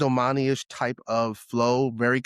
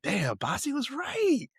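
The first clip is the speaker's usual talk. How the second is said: mock stunned admission; 11 semitones higher, 4 dB quieter, slower than usual. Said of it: "I was like".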